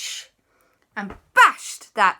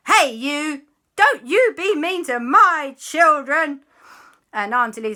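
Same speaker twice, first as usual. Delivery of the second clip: high, loud, slow telling-off; scolding mother; 7 semitones higher, 8 dB louder than usual. Acted. Mummy defends her children from the ghost, loud scolding. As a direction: call out firmly, word by word.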